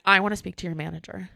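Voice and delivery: loud, quick mock demand; demanding guest. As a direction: imitate an indignant customer going over her head.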